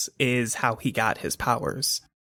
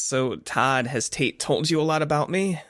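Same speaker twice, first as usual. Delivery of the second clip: a touch of languid ease; lazy; 4 semitones higher than usual. Acted. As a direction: say it lazily, as if casually dropping news. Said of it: "lazily says".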